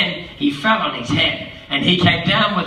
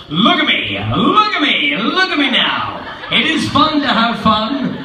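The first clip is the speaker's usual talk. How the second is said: showing-off cat; 2 semitones higher than usual. Acted. The cat shows off his tricks to the kids, laughing. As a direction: brag like a circus showman.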